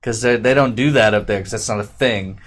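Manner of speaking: high, loud voice of a doubtful pizza guy; imitating the pizza guy's funny voice on the phone. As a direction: put on his funny voice. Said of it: "that's really how he talked".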